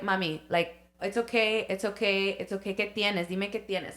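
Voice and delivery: put-on gently calm a shaking toddler; aunt hushing her goddaughter, softly soothing. Aunt soothing angry toddler, retold.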